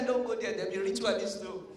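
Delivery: loud, high warning call. Retold or imitated. Comic calling out a warning to fellow Africans in store, loud and high.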